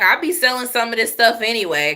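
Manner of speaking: lightly acted casual admission; imitated classmate. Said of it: "She was like".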